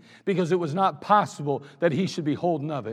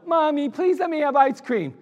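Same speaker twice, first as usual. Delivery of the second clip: put-on higher, whiny child's plea; pleading child; 7 semitones higher than usual. Preacher imitating a child pleading for ice cream. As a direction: beg like a spoiled kid. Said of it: "like your child".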